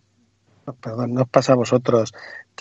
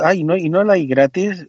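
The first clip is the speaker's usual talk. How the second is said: higher, whiny mimicry; mock whine; 5 semitones higher than usual. Imitating users who want free Mac apps, whiny mock. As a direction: whine like a cheapskate.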